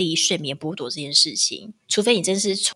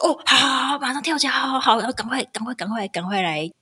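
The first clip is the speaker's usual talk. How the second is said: higher, hurried yeses; flustered rush; 5 semitones higher than usual. Retold or imitated. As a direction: scramble awake in a fluster. Groggy wife jumping up.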